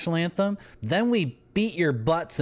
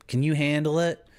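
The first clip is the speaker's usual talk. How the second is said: a higher, cocky dare; teasing challenge; 5 semitones higher than usual. Pretend. Streamer taunting chat about drinking coca tea, cocky dare. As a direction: dare them to keep up.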